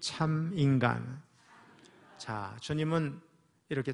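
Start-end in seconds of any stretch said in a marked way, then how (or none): 0.0-1.2 참 하나님, 참 인간 spoken very slowly, each phrase apart; slow call and response. Shown as a demonstration. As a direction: say 참 하나님 and 참 인간 slowly for the congregation to echo. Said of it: "한번 따라해 보세요".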